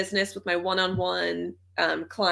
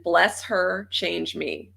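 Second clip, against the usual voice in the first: prayer-like mantra; 2 semitones lower, slower than usual. Shown as a demonstration. Mantra for a difficult woman, said like a prayer. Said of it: "this sounds like a prayer".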